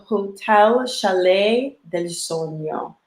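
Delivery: Hotel Chalet del Sueño slowly, with a careful Italian-sounding accent; foreign accent. Shown as a demonstration. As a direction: roll out Chalet del Sueño like a native speaker. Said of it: "Girl, and that accent".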